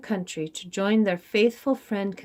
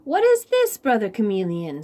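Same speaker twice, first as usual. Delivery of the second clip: curious Rabbit; 4 dB louder than usual. Acted. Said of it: "said Rabbit".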